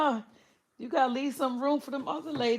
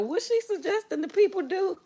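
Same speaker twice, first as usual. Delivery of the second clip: mock YouTube reviewer; 10 semitones higher, 4 dB louder than usual. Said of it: "YouTube be like".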